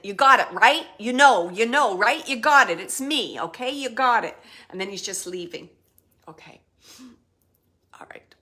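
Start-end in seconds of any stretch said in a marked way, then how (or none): 0.0-4.4 loud, pressing, driving it home; spirit's emphatic insistence. Retold or imitated. Relaying the spirit's message to the sitter, loud and insistent. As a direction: hammer it in so they can't miss it. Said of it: "he's like".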